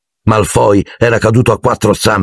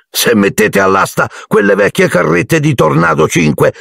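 put-on much higher, sneering boy's voice; mocking taunt; 8 semitones higher than usual. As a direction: taunt them about the old brooms. Malfoy mocks Gryffindor brooms. (scherno acuto da ragazzino)

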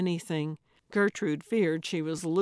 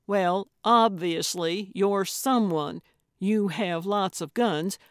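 mildly exasperated, punchy insistence; impatient brush-off; 5 dB louder than usual. Acted. Gertrude tells Dave he is obviously someone, mildly impatient. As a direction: wave away the denial with emphatic impatience.

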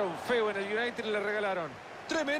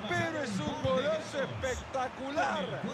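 excited; 3 semitones higher than usual. Real, not acted. Celebrating goal.

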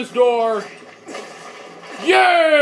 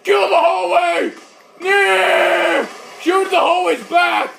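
battle shout; 3 semitones higher than usual. Pretend. Attacking hallway, shouting.

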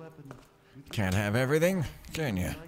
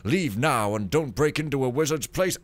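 pompous wizard note; 3 semitones higher, 7 dB louder than usual. Pretend. Gamer reading a wizard's note in a grand voice. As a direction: boom out the warning like a haughty wizard.

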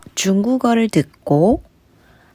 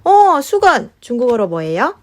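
아이에게 말하듯. Acted. Cueing toddler.

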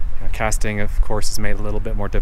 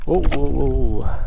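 drawn-out, higher startled whoas; slow down as the fish surges; surprised whoa; 4 semitones higher, much slower than usual. Real, not acted. Fish fighting on the line.

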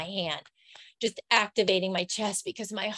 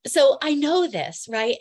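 louder, slow and higher, really meaning it; emotional insistence; 5 semitones higher, 6 dB louder, slower than usual. Real, not acted. Telling viewers she knows her history, emotional and emphatic. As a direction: lean hard on knowing it, stirred up. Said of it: "tell I'm getting really emotional about this and excited".

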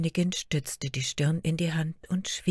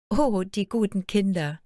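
moved exclamation; 5 semitones higher, 4 dB louder than usual. Acted. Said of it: "rief Märchen bewegt aus".

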